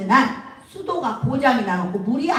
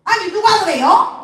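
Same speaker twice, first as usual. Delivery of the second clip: put-on high-pitched startled old woman; startled Jeolla granny; 8 semitones higher, 4 dB louder than usual. Mother-in-law asks who said that, high startled granny voice. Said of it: "그러니까 이 할머니가".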